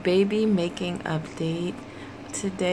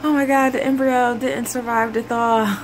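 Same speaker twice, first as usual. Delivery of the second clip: panicked thought; 4 semitones higher than usual. Retold or imitated. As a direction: gasp it out in a panic. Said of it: "It freaked me out".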